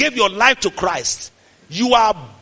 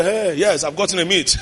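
low-key voice for a dog; dog's voice; 4 semitones lower, 3 dB quieter than usual. Acted. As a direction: size up your prey as the dog. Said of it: "the dog will check at you".

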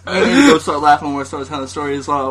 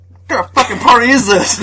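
laughing; 5 semitones higher, 3 dB louder than usual. Retold or imitated. Retold indignant question.

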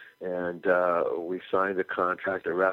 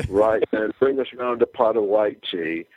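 mock English accent, louder, tossed off; fake British accent; 3 semitones higher, 5 dB louder than usual. To fans sure they're British, mock English accent. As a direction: put on a jokey British accent. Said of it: "And then we'd fake the accents".

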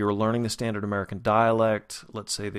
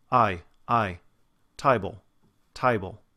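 Cockney "table" as "tie-bull"; Cockney accent. Shown as a demonstration. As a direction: demonstrate the wide Cockney glide in "table". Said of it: "lower class British accent, a Cockney dialect".

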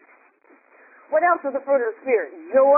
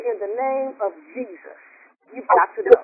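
cool and calm. Shown as a demonstration. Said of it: "cool, calm, and collected and say".

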